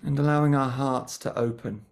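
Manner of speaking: gentle guiding voice with long pauses between phrases; guided meditation. Real, not acted. Teacher settling a group before a mindfulness session, guided meditation. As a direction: ease listeners into stillness, leaving lots of silence. Leads a short grounding meditation.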